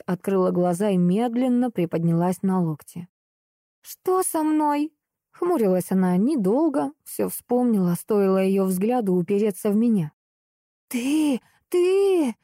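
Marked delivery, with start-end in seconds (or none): 3.8-4.9 high, slow groggy voice; dazed. Acted. Очнувшись после удара. 10.9-12.3 high, rising furious sputter; speechless rage. Acted. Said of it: "В гневе она не могла".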